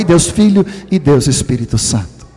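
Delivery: usual speaking voice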